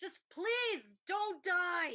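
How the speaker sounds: high, desperate screaming. Voicing a character calling over the comm to someone in danger: screaming. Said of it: "Rhea just screams into the comm".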